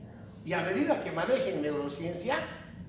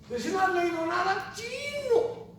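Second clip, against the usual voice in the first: exclaiming; 12 semitones higher than usual. Real, not acted. Exclaims about unread students.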